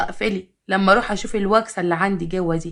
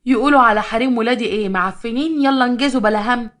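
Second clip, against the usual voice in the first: louder, bossy telling-off; scolding; 3 semitones higher, 4 dB louder than usual. Acted. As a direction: order them off to wash. Mother-in-law scolds tired wives. (توبيخ بصوت عالي متسلط)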